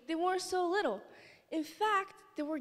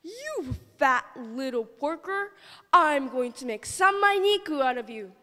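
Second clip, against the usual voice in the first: yelling wolf; 6 dB louder than usual. Acted. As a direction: snarl it out as the wolf. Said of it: "the wolf yelled out".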